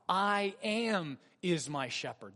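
slow, stress on "am"; weighty reading. Shown as a demonstration. Pastor re-reads the verse slowly for weight. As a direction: lean on "am" and let the words land. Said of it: "How about".

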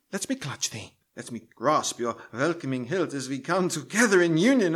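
theatrical audition reading; Shakespeare recital. Acted. Actor auditioning for Macbeth, reading in stagey recital. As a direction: declaim the speech for the casting panel. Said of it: "begin reading the sample passage".

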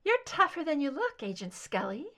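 a hint of an ethereal female captor; captor's soft soprano. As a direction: float it up, delicate and airy. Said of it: "higher pitched ... soft soprano".

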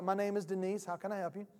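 softly voiced nice phone agent; real nice lady. Bank agent offering a caller help, mildly imitated niceness. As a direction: offer help kindly, softening at the end. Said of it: "so she was real nice".

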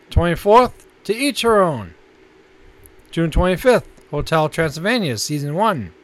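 announcer-style list reading; listings read. Acted. Co-host announcing this month's new Netflix titles, measured announcer read.

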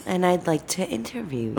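exaggerated cartoon intonation. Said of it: "why are you act-, talking like that?".

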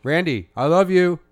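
high loud strained dog voice; dog saying I love you. Acted. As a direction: howl it out like a dog. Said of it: "See, he said it".

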